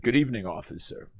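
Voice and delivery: smooth, polite radio-announcer voice. Retold or imitated. Tipsy driver greeting the officer, in smooth radio-announcer voice. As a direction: put on your best broadcast voice for the officer. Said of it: "I did in my best radio voice".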